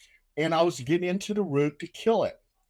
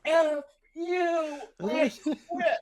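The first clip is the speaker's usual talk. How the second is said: defiant quitting; 11 semitones higher, slower than usual. Retold or imitated. Quitting on his captain.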